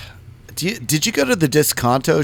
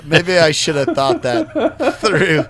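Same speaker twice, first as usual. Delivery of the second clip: laughing at your own blunder, slower; sheepish laughing; 2 semitones higher, slower than usual. Retold or imitated. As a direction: chuckle through the regret. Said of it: "I was like".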